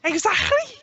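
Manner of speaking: Scouse accent. Shown as a demonstration. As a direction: say it like a Liverpudlian. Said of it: "I can only say one word in Scouse".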